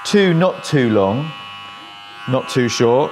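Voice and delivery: slow, careful repeat of "Two, not too long". Shown as a demonstration. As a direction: spell out "not too long, not too short" slowly for Americans.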